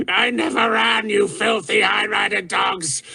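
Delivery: high, ranting fury that savors the cruelty; raving. A narrator's reading. Raving warlord ranting at the crowd of courtiers. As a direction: spit every memory out with hate. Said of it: "still raving".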